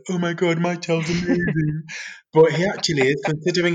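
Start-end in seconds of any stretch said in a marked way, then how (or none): 0.1-1.8 lightly hammed-up proud parent rave; gushing parent. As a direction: ham up the doting parent. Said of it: "one of those gushing parents like".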